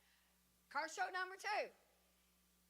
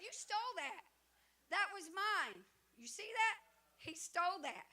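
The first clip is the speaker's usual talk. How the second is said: mock accusation; 4 semitones higher, 6 dB louder than usual. Accusing others of stealing her win.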